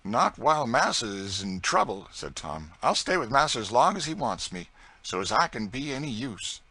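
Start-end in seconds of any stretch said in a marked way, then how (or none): 0.0-2.1 higher, louder devoted reply; Tom's loyal voice. Acted. 2.8-6.6 higher, louder devoted reply; Tom's loyal voice. Acted.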